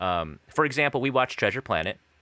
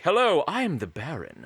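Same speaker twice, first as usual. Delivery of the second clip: dashing, higher-pitched character voice; the Baron; 6 semitones higher than usual. Acted. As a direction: play a dashing cat introducing himself. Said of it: "a bit of a dashing character in English".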